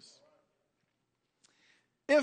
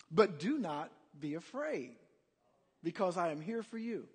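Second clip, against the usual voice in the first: softer, lower voice of comfort; reassuring; 3 semitones lower, 4 dB quieter than usual. Acted. God comforting frightened followers, softly reassuring. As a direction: soothe them quietly and steadily.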